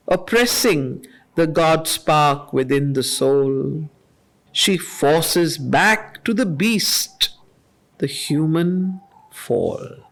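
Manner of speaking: slow, measured reading of verse; poem recitation. Acted. Teacher reading Savitri lines to the class, measured and solemn. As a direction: let each line land with weight.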